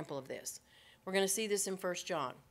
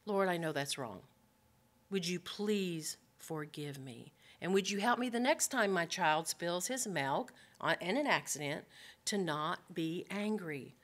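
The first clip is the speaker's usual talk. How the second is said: soft contrite prayer; 3 semitones lower, 3 dB quieter than usual. Acted.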